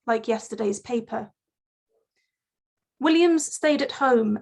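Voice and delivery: deliberate poem recital, pausing after each phrase; poetry reading. Acted. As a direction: let each line of verse stand on its own. Reads own poem aloud.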